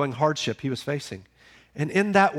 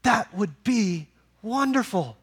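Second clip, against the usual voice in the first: slower, drawn-out repeat; slow savoring; 5 semitones higher, slower than usual. Acted. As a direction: savor each word slowly. Preacher repeats line, savoring it.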